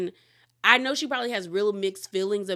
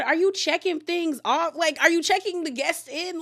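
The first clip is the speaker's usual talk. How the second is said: high, loud, baffled questions; much higher and louder, baffled; incredulous questioning; 9 semitones higher, 4 dB louder than usual. Retold or imitated. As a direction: ask it in loud disbelief. Retelling her own reaction.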